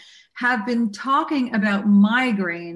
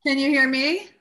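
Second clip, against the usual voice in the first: faint, far from the phone; barely audible; 5 semitones higher than usual. Real, not acted. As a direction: sounds distant on the line. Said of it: "Yes, barely".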